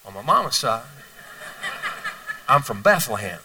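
hint of young Jesus, patient and unhurried; young Jesus explaining his origins to the teachers; calm young Jesus.

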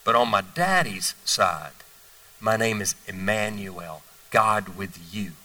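slow, low, soft and knowing; young Jesus answering the teachers slowly and softly; calm young Jesus. Retold or imitated. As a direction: lay it out gently, unhurried, like a wise child. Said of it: "He said".

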